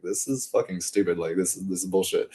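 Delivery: a soft, dismissive mutter under the breath; muttered quietly. Retold or imitated. Reading her statement alone, muttering softly in disgust. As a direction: scoff at it quietly to yourself. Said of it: "I remember reading it and I was like".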